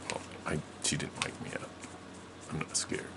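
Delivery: put-on soft, deflated kid's protest; hushed, defeated childish mumble; resigned denial. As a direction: let the protest sink to near nothing. Child finally gives up protesting.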